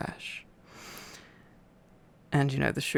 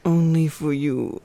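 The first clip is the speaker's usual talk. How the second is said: loud playful repeat; 9 dB louder than usual. Acted.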